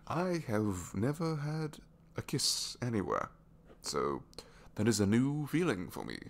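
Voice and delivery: giddy amazement. Acted. Giddy after first kiss.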